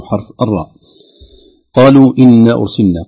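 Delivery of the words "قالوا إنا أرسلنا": قالوا إنا أرسلنا recited in one breath with connected elongations. Shown as a demonstration. Teacher reciting the verse for listeners, joined recitation. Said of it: "هذه كلها مدود منفصلة".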